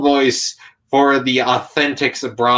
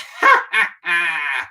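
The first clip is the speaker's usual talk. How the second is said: Skeletor cackle; 5 semitones higher than usual. Shown as a demonstration. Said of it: "a scratchy Skeletor voice".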